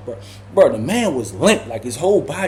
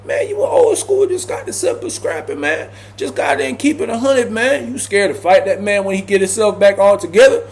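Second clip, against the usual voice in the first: much higher, teasing; mocking tease; 6 semitones higher than usual. Teasing Ty for running from the fight, high mocking voice. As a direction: needle him with mock disbelief. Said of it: "So I'm like".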